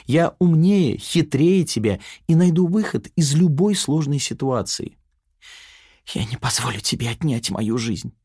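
a cheeky taunting triumph; insolent. Acted. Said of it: "нахально рассмеялась Яна Лапина".

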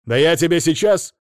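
high, loud furious yell; shouting. Acted. Ada screams at her ex, high and loud.

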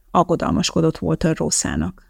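ordinary delivery

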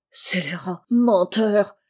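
strangled outrage. A narrator's reading. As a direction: force the words out through a tight throat. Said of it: "d'une voix étranglée".

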